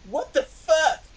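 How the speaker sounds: high, hammed-up outrage; angry. A narrator's reading. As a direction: rant in melodramatic indignation. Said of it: "I said angrily".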